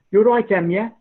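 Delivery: high, loud Black Country greeting; Black Country accent. Retold or imitated. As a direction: call it out like a local from the Black Country. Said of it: "So people were saying".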